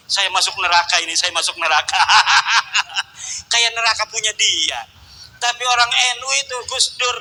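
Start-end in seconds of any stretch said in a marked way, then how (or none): 0.1-2.0 fast, louder mock panic, laughing; hammed-up scared zealot crying out about hell; a hint of a panicked Wahabi, fast and louder; mock trembling Wahabi. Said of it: "dia ngegeter-geter". 2.1-3.5 laugh. Real, not acted. Laugh after mock quote.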